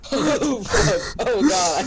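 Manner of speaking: disgusted groan. Real, not acted. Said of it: "I hate this".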